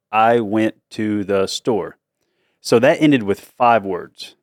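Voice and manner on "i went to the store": slow inner voice. Retold or imitated. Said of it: "I would say something like".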